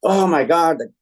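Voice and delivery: mildly heated mock complaint; retold fired-up rant. Customer going off about the utility, mildly fired-up imitation. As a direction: imitate a customer getting worked up. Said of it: "he started just going off".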